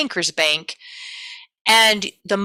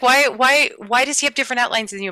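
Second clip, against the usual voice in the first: student asking why outlines differ, higher and puzzled; imitating student; 5 semitones higher than usual. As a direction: echo the student's baffled question. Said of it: "And she's like".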